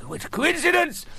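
high toff voice. Retold or imitated.

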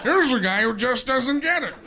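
high slow shout; mock outburst. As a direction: proclaim it sarcastically. Self-mocking outburst.

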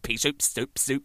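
vocal drum-kit noises; imitated drum solo. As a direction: mouth the cymbal hits rhythmically.

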